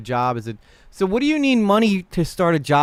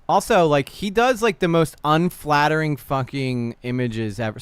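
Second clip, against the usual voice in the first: getting angry. Real, not acted. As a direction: let real irritation push the words out. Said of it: "Sorry, I'm getting angry".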